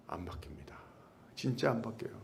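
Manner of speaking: a whispered aside to the congregation. Acted. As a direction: whisper it as a hard truth. Sermon emphasis, whispered.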